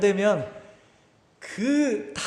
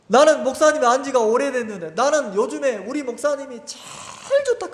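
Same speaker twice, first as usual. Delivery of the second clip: gushing praise; 5 semitones higher than usual. Retold or imitated. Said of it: "뭐라고 하냐면".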